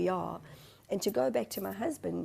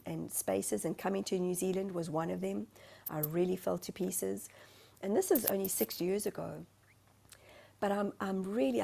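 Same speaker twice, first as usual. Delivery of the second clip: ordinary delivery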